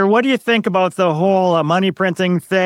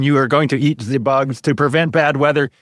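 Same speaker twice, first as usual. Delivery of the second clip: lower, lightly mocking German accent; a mild hint of a German accent, voiced lower; Klaus Schwab German accent; 5 semitones lower than usual. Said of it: "Klaus Schwab with his accent saying".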